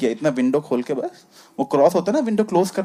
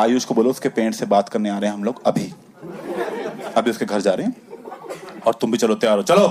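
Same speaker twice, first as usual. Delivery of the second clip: a lower, stern dad voice; 7 semitones lower than usual. Retold or imitated. Dad ordering his son to come along, low and stern. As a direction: lay down the law in a low voice. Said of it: "कह रहा".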